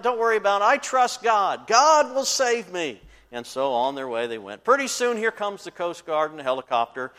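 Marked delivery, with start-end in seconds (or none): 0.0-3.0 calm stubborn faith. Retold or imitated. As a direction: settle into smug certainty. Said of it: "he said".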